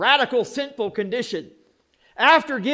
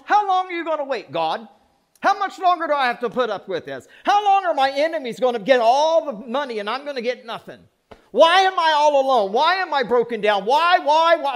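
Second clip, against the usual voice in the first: rising, louder pleading cry of why; lament of David; 4 semitones higher, 3 dB louder than usual. Acted. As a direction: plead with God like a desperate psalmist. Voicing David's lament in Psalms.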